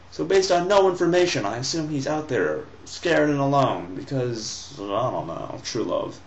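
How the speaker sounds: sarcastic, starting high and fading to a mutter; mocking paraphrase. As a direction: poke fun at the son's logic. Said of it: "mocking Ahmad's reasoning".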